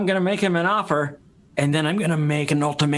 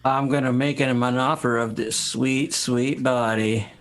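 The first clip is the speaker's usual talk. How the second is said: seductive; 4 semitones lower, slower than usual. Acted. Seductive improv line.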